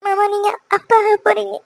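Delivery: tearful happy announcement; acted weepy wife; crying. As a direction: break the good news through tears. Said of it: "அழுகாதன்னு சொன்னாலும் அழுகி நிறுத்த மாட்டேற".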